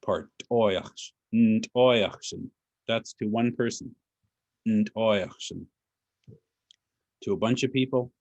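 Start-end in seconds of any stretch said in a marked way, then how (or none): 0.5-2.5 "toyach, ntoyachsen" with the weight on "oy"; stress on OI. Shown as a demonstration. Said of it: "the emphasis is on the oi". 4.7-5.7 "ntoyachsen" modelled with emphasis on "oy"; careful teaching take of "ntoyachsen", weight on "oy"; stress on OI. Shown as a demonstration. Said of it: "the emphasis is on the oi".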